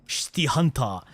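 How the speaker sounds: put-on City Hunter said as "Shiti Hanta" in a light Korean accent; a quick mock Korean accent on "City Hunter", final syllable "ta". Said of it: "I did a Korean accent there".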